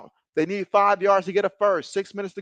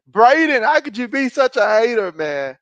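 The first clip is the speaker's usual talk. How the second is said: mock outrage; 3 semitones higher, 6 dB louder than usual. Real, not acted. Teasing chat viewer.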